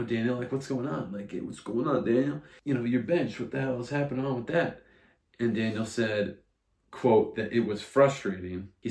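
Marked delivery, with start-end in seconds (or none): 0.0-4.8 lightly voiced New York reporter; a hint of a pushy press question; mock reporter. Podcaster imitates post-game reporter quizzing Daniel, lightly voiced. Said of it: "they're like".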